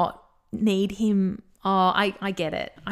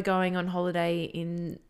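stuffy, teary nasal voice; nasal from crying; 6 semitones lower than usual. Real, not acted. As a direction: talk through a blocked nose after crying. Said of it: "I'm gonna be so nasally now".

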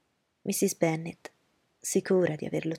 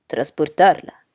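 loud startled exclamation; Bingley protesting loudly; exclaimed; 13 dB louder, slower than usual. Acted. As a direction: blurt it out in protest. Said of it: "esclamò Bingley".

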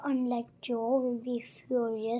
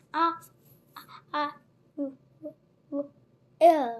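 halting, broken by long pauses; stammer, stuck for words; faster than usual. A narrator's reading. Frightened boy answering his captor, stammering. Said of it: "I stammered".

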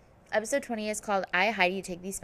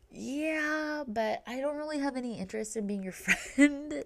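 dismissive put-on voice; 7 semitones higher than usual. Lauren brushing off Heidi.

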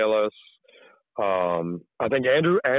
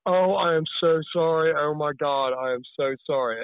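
higher-pitched, rueful apology, retold; regretful apology; 5 semitones higher than usual. Apologizing to the woman at the brewery, mock regretful. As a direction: act out an instantly regretful sorry. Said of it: "it was, like, immediate regret".

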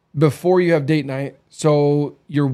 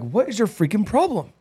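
exasperated retort; 6 semitones higher than usual. Retold or imitated. Retold exasperation at wife.

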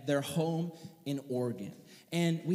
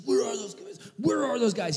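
mild mock angry toddler; 4 semitones higher than usual. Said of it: "He's super mad".

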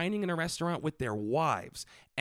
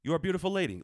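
high, oily compliment; smarmy flatterer; 6 semitones higher, much faster than usual. Retold or imitated. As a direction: flatter like a creep. Mocking creepy messages.

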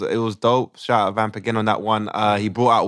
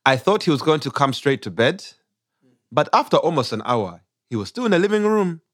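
put-on Ugandan accent; 3 semitones higher than usual. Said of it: "we do it in a Ugandan accent".

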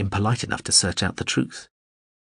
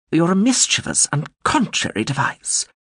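Baruelal voice; 9 semitones higher than usual. A narrator's reading. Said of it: "Baruelal said".

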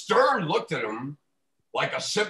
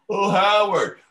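fawning fan voice; 3 semitones higher, 4 dB louder than usual. Retold or imitated. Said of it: "idiots that sit there and go".

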